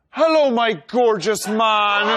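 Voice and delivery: mock wooing voice. Wooing Andy in baby talk.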